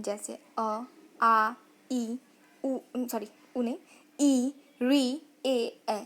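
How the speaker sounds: unrounded vowels said one by one with open lips; vowel demo. Shown as a demonstration. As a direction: show each vowel without rounding. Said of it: "होठ वृत्तमुखी या गोलाकार नहीं". (आवृत्तमुखी स्वरों का उच्चारण)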